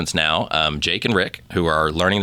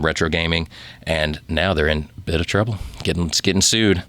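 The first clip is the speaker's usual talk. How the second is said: sexy voice. Pretend. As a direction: read the news like a seduction. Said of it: "the sexy voice is no good".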